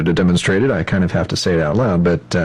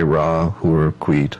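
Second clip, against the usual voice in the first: slow rhythmic mantra; 3 semitones lower, much slower than usual. Shown as a demonstration. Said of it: "about as long as it took me to say".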